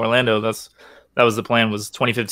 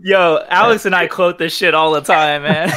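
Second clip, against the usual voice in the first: laughing; 5 semitones higher, 4 dB louder, slower than usual. Real, not acted. Laughing while recalling a quote.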